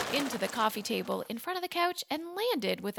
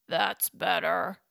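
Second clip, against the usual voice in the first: growled; 2 semitones lower, slower than usual. Acted. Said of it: "he growled".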